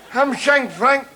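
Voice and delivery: chuckling start to the gossip; amused telling. Acted. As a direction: relish the nickname. Launches into the story.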